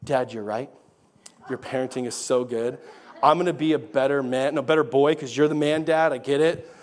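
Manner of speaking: hammed-up son admitting dad is right; imitating his son. Dad mimicking his son's hoped-for apology, mock. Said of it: "expecting my son to say".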